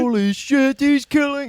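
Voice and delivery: slow, high, loud holy shit; drawn-out amazement; stunned fan. Pretend. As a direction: deaf fan floored by vibrations. Deaf fan voice.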